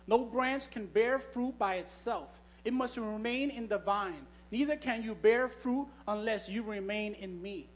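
slow, solemn Bible reading voice; scripture reading. Acted. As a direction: read each verse with weight and pauses. Reads John fifteen aloud.

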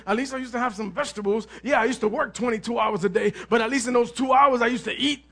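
mock grumbling about old food; murmuring complainer. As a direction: mutter the complaint like a sulky slave. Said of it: "That's in the word".

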